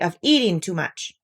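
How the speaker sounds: a touch stern scolding. Acted. Rabbit scolding Pooh for eating too much, stern. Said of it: "said Rabbit sternly".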